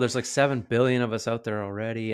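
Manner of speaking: lightly put-on protest, opening high and loud; half-joking hesitant side; reluctant inner voice. Voicing his reluctant inner side.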